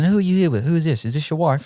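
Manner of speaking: put-on elderly British woman's accent. Retelling being stopped with a questionnaire: imitating an elderly british woman. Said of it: "elderly British woman".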